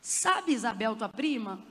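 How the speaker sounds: low, drawn-in teasing question; sly prompting. Acted. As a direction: drop it low like a knowing hint. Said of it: "Aí olha como ele faz".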